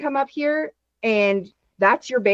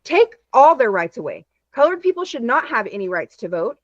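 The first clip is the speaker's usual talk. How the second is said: mock racist old man; 6 semitones higher than usual. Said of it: "and says".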